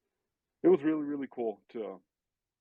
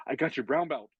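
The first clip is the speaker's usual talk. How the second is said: put-on higher-pitched, eager kid announcement; excited kid; 5 semitones higher than usual. Kid tells his mentor about the belt, excited. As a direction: imitate a kid proudly breaking the news. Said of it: "all excited, he's like".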